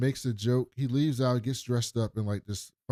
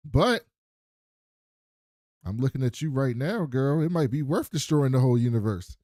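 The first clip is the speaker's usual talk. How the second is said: hammed-up pickup line; 6 dB louder than usual. Acted flirty line to her.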